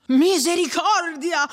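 high, loud, drawn-out exclamation; alarmed cry. A narrator's reading. Agnese hears Menico's distant yell, alarmed cry. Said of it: "grida anche Agnese".

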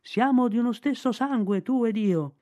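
high ringing call to the kite; boy calling up to the kite in the sky. Acted. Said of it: "lo udì lanciare il richiamo dei nibbi".

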